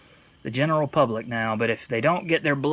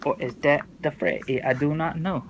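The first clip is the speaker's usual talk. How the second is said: mock confused moviegoer; 2 semitones higher than usual.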